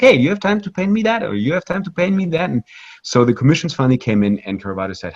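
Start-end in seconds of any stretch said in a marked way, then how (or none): 0.0-2.5 high-pitched mock pleading of eager clients; eager requests. Cardinals approaching the painter for commissions, mock eager. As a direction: pitch it up, imitating clamouring patrons.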